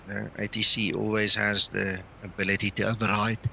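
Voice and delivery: talking through a yawn. Real, not acted. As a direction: yawn while speaking. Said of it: "Sorry, I'm yawning again".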